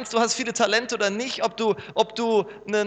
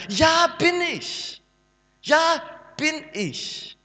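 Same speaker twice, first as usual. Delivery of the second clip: hesitant admission; 8 semitones higher, slower than usual. Acted. Pastor answers own doubt question.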